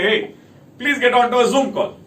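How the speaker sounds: imitating the boss pulling you into a call; demanding boss. Boss interrupting chores with a call demand, mildly mocked.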